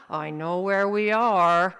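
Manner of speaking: loud, drawn-out insistence; insistent. Acted. Dad to mom over the map, loudly insistent. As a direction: stretch it out loudly and firmly.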